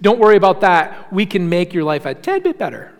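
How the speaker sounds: a light parody of a drug-ad salesman; breezy pitchman brushing off side effects; mock ad voice. Preacher mocking prescription ad disclaimers, light salesman voice. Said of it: "like at the end of all those prescription ads".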